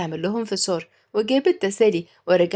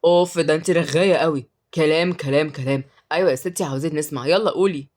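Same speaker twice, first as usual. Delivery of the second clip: put-on boy, impatient; 4 semitones lower than usual. A narrator's reading. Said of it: "رد عمر بسرعة".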